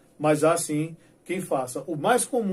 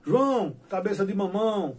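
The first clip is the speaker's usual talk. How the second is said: put-on kids teasing; 4 semitones higher than usual. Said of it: "aí os meninos diziam".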